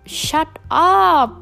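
fed up with gossips, snapping a loud high shut up; annoyed retort. Acted. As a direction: shout them down, fed up.

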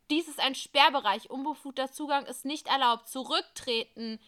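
loud official command; police order. Acted. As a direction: bark the cordon order. (lauter Polizeibefehl)

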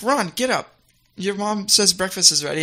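lightly voiced British schoolgirl; Hermione. Girl waking her friend for breakfast, light impersonation. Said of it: "Hermione's like".

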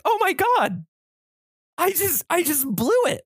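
mock dismay. Realising he misread the topic.

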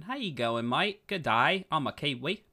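hammed-up New Zealand greeting; bad Kiwi accent. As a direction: attempt a Kiwi accent and miss. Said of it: "It's not what they sound like".

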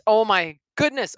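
ordinary delivery

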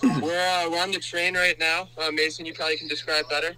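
phone call from a noisy train; shouting on a subway. Real, not acted. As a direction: speakerphone caller raising voice over train. Caller on train, speaker phone.

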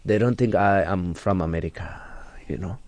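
persona's African accent, deliberate phrasing; African-accented English, put on for show. Shown as a demonstration. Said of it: "they think this is my real accent".

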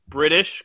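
BRITISH lifted slightly, like a question; questioning read-out. Retold or imitated. Co-host reading out doubtful note on the accent, questioning. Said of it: "question mark".

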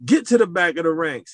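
officer demoting the recruit leader, loud slow order; barked order. Retold or imitated. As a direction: dress him down. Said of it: "He said".

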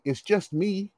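soft, earnest reassurance, lightly acted; dead serious. Boy reassuring girlfriend's father, sincerely matter-of-fact. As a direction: say it as an obvious, harmless fact. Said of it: "I was dead serious".

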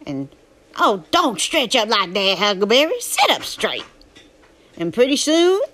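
Huck's southern drawl, telling his story; southern storytelling voice. Acted. Reading Huckleberry Finn aloud to a drowsy listener, southern narration. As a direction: read it as a folksy southern tale.

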